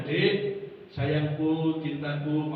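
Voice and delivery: gentle loving murmur; romantic endearment. Acted. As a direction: coax the crying wife sweetly. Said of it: "romantis nggih".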